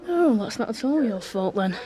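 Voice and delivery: dry, mock-sympathetic sarcasm; sarcastic. Real, not acted. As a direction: say it with a sarcastic edge. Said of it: "are you being sarcastic?".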